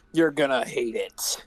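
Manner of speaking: whispered warning. Real, not acted. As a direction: lean in and whisper it. Warning aside to listeners.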